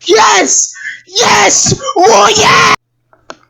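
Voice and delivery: sarcastic victory yell; mock cheering. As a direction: cheer it like a fan gone wild, tongue in cheek. Mock celebration of a good moment.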